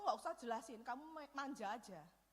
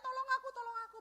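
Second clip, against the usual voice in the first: high, louder plea for help; a pleading "Tolong aku" raised high and loud; calling for help; 8 semitones higher, 5 dB louder, faster than usual. Retold or imitated. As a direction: cry out to be rescued. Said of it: "teriak-teriak".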